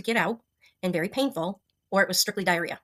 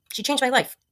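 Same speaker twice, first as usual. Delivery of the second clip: teary-eyed; 5 semitones higher, 4 dB louder than usual. Real, not acted. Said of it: "I'm gonna start getting teary-eyed here".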